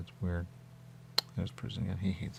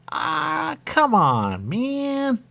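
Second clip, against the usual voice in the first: squealing high, louder groan of protest; exasperated; 7 dB louder, much slower than usual. Retold or imitated. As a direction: whine it in frustration. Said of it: "and they said".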